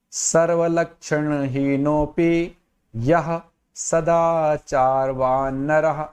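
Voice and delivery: slow, measured chanting of the Sanskrit verse; shloka recitation. Shown as a demonstration. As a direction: recite the shloka slowly and evenly. (धीमे, लय में श्लोक पाठ)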